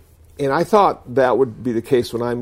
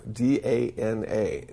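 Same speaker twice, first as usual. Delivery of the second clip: spelled out letter by letter; 5 dB quieter, slower than usual. Shown as a demonstration. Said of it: "spells the word".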